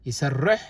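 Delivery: "يسرح" said carefully with a double R, yi-sar-rah; doubled R. Shown as a demonstration. Teacher showing how it's pronounced, "يسرح" with the R doubled. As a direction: hold the R across both syllables of "يسرح". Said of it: "I'm doubling the R".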